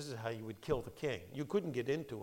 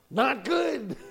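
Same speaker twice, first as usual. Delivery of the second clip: emphatic exclamation; 11 semitones higher, 10 dB louder than usual. Real, not acted. Comic aside after punchline.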